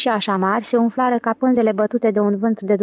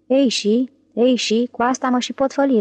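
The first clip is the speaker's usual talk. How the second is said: "Ei și, ei și" in measured beats; verse-like cadence; 3 semitones higher than usual. A narrator's reading. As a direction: chant "Ei și, ei și" lightly, as if starting iambic verse. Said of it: "într-o cadență vestitoare de iambi".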